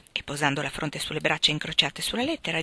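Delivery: ordinary delivery, nothing marked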